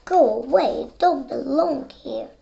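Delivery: loud, jeering shove-off; loud rejection. Acted. Other ducks loudly telling the ugly duckling to leave. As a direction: bark it out to drive him away.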